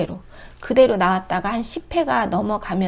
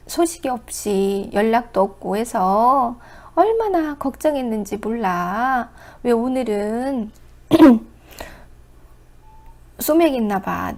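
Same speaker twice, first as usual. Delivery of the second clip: sweet mock wife. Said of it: "이렇게".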